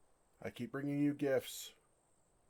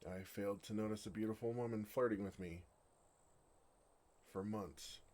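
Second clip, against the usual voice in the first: embarrassed; 5 dB quieter than usual. Acted. Embarrassed admission to the woman.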